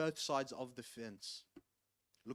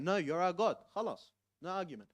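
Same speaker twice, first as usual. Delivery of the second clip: louder, higher insistent mock crowd; 4 semitones higher, 5 dB louder than usual. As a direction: press the claim stubbornly, raised. Crowd insists Ali is God.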